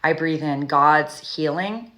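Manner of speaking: guided meditation breathing. Shown as a demonstration. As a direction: lead a calming breath meditation. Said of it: "When I do this, I like to breathe in".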